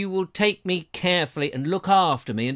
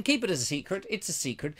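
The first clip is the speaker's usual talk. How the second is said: softer secret whisper-like aside; conspiratorial hush; 7 dB quieter, faster than usual. Pretend. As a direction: drop to a secretive near-murmur. Secret said softly.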